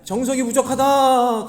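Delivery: loud, high, drawn-out shaman wail; slowly milk the shaman's demand; mock shaman. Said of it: "생쇼를 하면서". (무당 흉내로 크고 길게 외치기)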